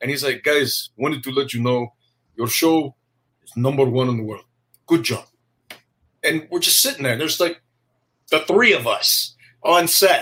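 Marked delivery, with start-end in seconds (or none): 0.4-5.2 put-on Israeli accent. Retelling someone coming down to the set to praise the show, heavy Israeli accent. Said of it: "heavy Israeli accent".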